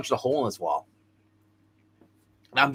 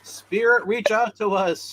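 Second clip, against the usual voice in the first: high, slow spirit-calling voice; seance medium; 8 semitones higher, slower than usual. Pretend. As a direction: summon the spirit in a hammy drawl. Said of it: "channeling the spirit".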